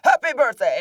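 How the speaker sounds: loud, menacing villain greeting; villain calling a kids' party, loud and menacing. Retold or imitated. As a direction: boom a sinister birthday wish at the kids. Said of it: "call as Diva Talks".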